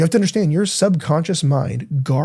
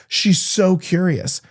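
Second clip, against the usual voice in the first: slow, stretched out and a bit higher; drawn-out emphasis; 5 semitones higher, much slower than usual. Shown as a demonstration. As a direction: linger on every word of it. Repeats the line, drawn out.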